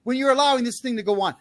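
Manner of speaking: loud, high angry yell; scolding parents with a real yell. Real, not acted. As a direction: rail at the parents. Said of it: "Now I'm gonna yell at you for this".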